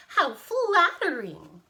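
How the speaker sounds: high, slow, loud coo; drawn-out, hammed-up delight; delighted tiny old woman. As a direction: gush like a flattered old lady. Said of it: "cried the tiny old woman".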